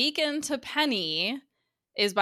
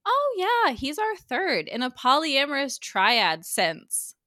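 high, slow, gushing mock mom; 6 semitones higher than usual. Retelling the mom's line, high gushing voice. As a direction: gush it like a doting mother. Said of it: "her mom is like".

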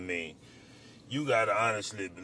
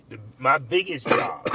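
choking on food; 4 dB louder than usual. Real, not acted. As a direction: cough breaking the sentence. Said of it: "They choking me right now".

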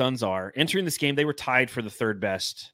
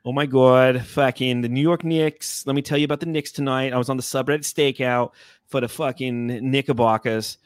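put-on New York accent. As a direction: do a hammed-up New Yorker. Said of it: "New York is more like".

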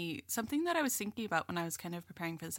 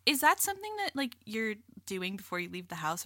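snippy sister; 2 semitones higher than usual. Retold or imitated. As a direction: needle her with a snippy question. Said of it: "It's always, like".

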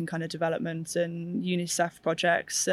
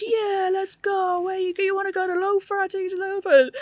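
high, put-on Russian pilot voice; badly faked Russian accent, pitched way up; mock Russian accent; 14 semitones higher than usual. Drunk Russian pilot offering a lift, in a mock Russian accent. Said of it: "It's the Russian accent".

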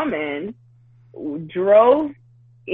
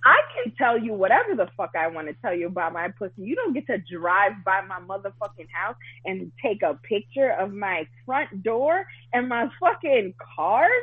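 indignant rant; 3 semitones higher than usual. Retold or imitated. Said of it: "and I'm like".

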